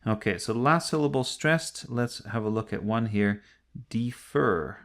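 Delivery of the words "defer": deFER, with the stress on FER; stress on the end. Shown as a demonstration. Teacher showing students the stress falls at the end. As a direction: stress the last syllable of defer. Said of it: "you can hear that".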